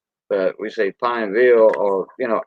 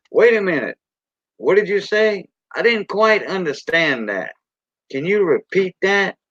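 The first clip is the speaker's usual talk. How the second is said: higher, puzzled asking; English version; 6 semitones higher than usual. Shown as a demonstration. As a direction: raise the voice, lightly confused. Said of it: "that's the English version".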